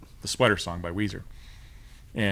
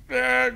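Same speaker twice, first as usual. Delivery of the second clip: confused drummer noise; 14 semitones higher than usual. Retold or imitated. Imitates drummer's bungled entry.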